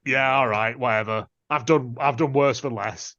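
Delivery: lightly voiced bored indifference; bored shrug. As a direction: shrug it off like nothing matters. Bored woman agreeing in retold scene.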